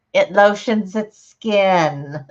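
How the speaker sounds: slow, creepy movie-villain line, lightly done; Silence of the Lambs quote. Retold or imitated. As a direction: drag it out like the creepy kidnapper. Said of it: "All I can think of is Silence of the Lambs".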